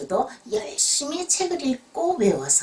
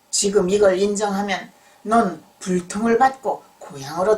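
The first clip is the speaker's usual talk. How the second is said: stern examiner; 7 dB louder than usual. Acted. Examiner warns the scholar of consequences.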